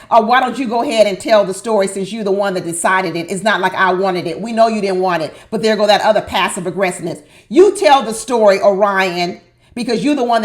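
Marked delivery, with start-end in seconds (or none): 0.1-7.2 mock passive aggressive. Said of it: "passive aggressive Lauren said".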